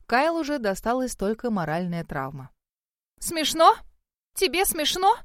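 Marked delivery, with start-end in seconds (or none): 3.2-3.8 a much higher, louder indignant question. A narrator's reading. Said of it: "Шерил пылала гневом". 4.3-5.2 an even higher rise on «Тебе смешно?», stress on «Тебе»; outraged repeat. A narrator's reading. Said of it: "Шерил пылала гневом".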